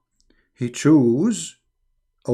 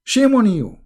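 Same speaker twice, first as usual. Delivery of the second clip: sharp, louder shame on you; reproach; 4 semitones higher, 4 dB louder than usual. Real, not acted. Host reproaching a viewer, sharp. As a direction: cut the viewer down.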